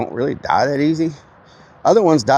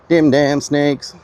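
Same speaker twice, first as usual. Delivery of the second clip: mock dread; 4 semitones higher, much slower than usual. Repeats the line drawn out.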